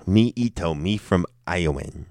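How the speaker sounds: understated mock-simpleton introduction; broken-English introduction. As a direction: try the silly line out casually.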